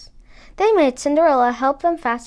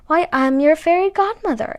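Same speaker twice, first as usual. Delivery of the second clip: fairy godmother; 5 semitones higher, 5 dB louder than usual. A narrator's reading. Fairy godmother introduces herself.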